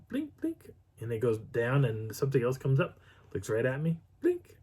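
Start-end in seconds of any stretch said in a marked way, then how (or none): 0.1-0.7 high, soft little blink blink; mimicked blinking. Describing the animal's eyes, a high soft blink blink. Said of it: "it looks at me and goes". 4.2-4.6 mimicked blinking. Imitating eyes blinking again.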